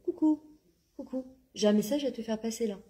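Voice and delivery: a hint of God tapping you on the shoulder; playful divine call. Speaker voicing God sending a gentle message, playful. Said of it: "Akadesh Brûle est en train de nous faire".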